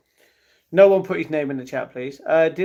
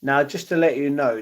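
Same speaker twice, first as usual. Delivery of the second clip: ordinary delivery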